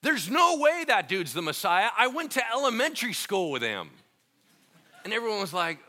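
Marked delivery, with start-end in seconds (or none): 0.0-3.9 a louder, dismissive sneer from a local; scoffing yahoo. Retold or imitated. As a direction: scoff at the idea, a bit louder. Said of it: "some yahoo says".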